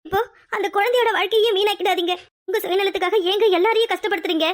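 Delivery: hurt, accusing confrontation; wife firing back accusations; indignant outburst. Acted. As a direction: let pent-up grievance pour out at the husband. Wife turns on husband accusingly.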